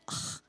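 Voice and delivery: quiet breathy groan of frustration; soft exasperated ugh. Acted. Speaker talking about losing the moment, quiet groan.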